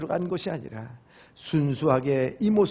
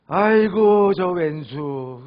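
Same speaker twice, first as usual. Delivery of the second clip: exasperated grumble; 6 dB louder, much slower than usual. Acted. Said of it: "그게 아니고".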